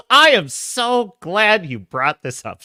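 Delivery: slow, drawn-out glad reply; emphatic delight. Pretend. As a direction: stretch out how glad you are. Mock-effusive reply to chat message.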